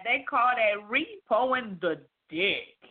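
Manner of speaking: slow, deliberate imitation of Ron. Co-host imitating Ron's slow delivery. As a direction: drawl it out slowly like Ron. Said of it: "let me try to use my Ron voice on that".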